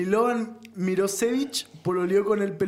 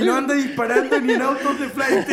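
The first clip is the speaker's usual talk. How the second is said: glam americano shouting; 4 semitones higher than usual. Pretend. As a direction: read it like a shouting tabloid host. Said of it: "Voy a leer la historia gritando".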